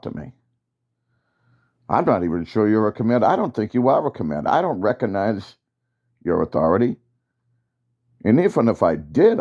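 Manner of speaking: defiant soldier. Acted. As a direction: push back hard at the commander. Soldier defies the commander.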